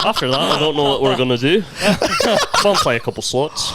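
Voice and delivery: laughing mock Irish accent; wobbly British drifting into Irish; bad British, Irish-sounding. Shown as a demonstration. Trying British for friends, Irish-sounding accent amid laughter. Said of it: "Do you think that's British?".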